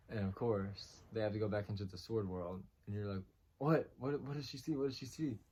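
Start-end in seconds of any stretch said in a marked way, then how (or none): 3.6-5.4 pitched up, urgent questions; excited disbelief. Retold or imitated. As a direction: demand to know what she sees. Viewer reacting to shocking reveal.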